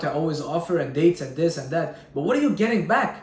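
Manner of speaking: normal talking voice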